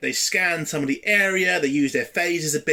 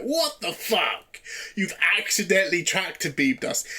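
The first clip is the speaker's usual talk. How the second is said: incredulous; 3 semitones higher than usual. Retold or imitated. Incredulous reaction to Pike's line.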